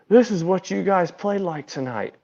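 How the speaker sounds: restrained mock telling-off; manager's retold scolding. Manager crouches, scolding the team.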